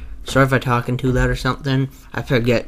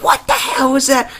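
high mock panic; shrill startled question; hammed-up high freakout; imitating Markiplier; 12 semitones higher than usual. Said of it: "He's like".

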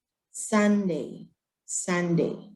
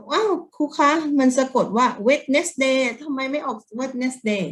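imitating puzzled students, a touch higher; mock child's question; 5 semitones higher, slower than usual. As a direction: voice a confused pupil asking teacher. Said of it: "ทุกคนบอก". (เลียนเสียงเด็กสงสัย)

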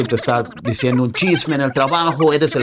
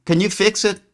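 higher, fretting over the printer; coworker asking; 7 semitones higher than usual. Acted. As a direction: ask for help with the broken printer. Coworker asks about printer.

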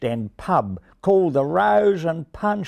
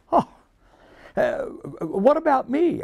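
much higher hopeful offer; eager Racy. A narrator's reading. Racy offering to help the ravens, high hopeful voice.

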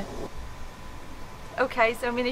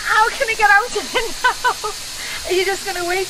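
higher, louder, flustered; 6 semitones higher, 4 dB louder than usual. Real, not acted. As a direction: panicky half laugh, wanting out. Soaked by sprinkler.

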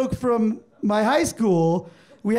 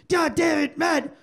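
higher, irate boss outburst; mock furious; 6 semitones higher, slower than usual. Partner finding his employee under the desk, acted fury. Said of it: "he's furious".

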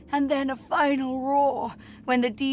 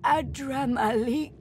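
harsh whisper; 3 semitones higher than usual. Acted. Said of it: "The spirit's voice is a harsh whisper".

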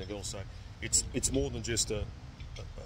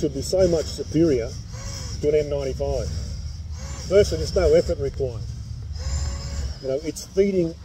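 muffled behind respirator; speaking inside sealed mask; through a face mask; 3 semitones higher, 7 dB louder than usual. Real, not acted. Seen 5: Clear half-face respirator worn over mouth and nose throughout.

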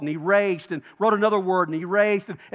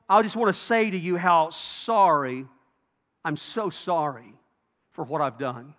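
acted heartbroken apology; 3 semitones lower than usual. Wrongdoer apologizing to the one they hurt, acted heartbroken. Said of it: "You see their heart breaking".

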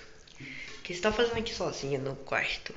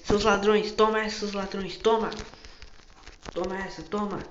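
battle shouts; 4 semitones higher, 4 dB louder than usual. Acted. Fighting the thieves, shouting.

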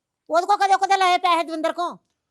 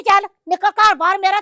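angry order; 5 dB louder than usual. Acted. Mother orders son out.

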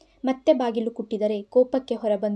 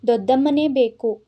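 louder, a lightly acted child's sob; sobbing plea; 6 dB louder than usual. Boy refusing to give up his aunt, mock sobbing plea. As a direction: insist through tears. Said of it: "ಮತ್ತೆ ಬಿಕ್ಕಿದ".

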